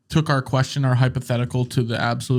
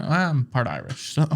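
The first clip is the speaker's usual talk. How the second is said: put-on Irish accent; 4 dB quieter than usual. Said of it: "a hint of their accent".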